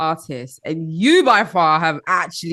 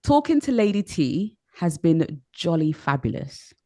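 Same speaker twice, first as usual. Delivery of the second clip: lower, measured English accent; English accent, unhurried and softer; British English accent; 4 semitones lower, 4 dB quieter than usual. Shown as a demonstration. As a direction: model the line in polished British English. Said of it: "in your best accent or English accent".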